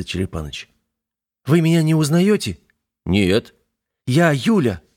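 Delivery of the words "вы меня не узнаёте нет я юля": put-on a girl's voice, higher and pleading; voiced young woman. Юля просит мужчин узнать её, жалобно. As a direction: plead to be recognised.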